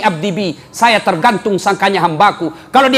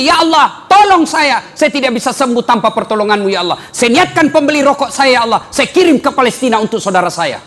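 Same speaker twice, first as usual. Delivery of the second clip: a raised, earnest voiced prayer; model prayer; 2 semitones higher than usual. Shown as a demonstration. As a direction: lead them in a fervent plea.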